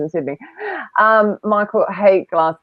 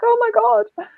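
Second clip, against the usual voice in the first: exasperated; slower than usual. Retold or imitated. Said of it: "you're like".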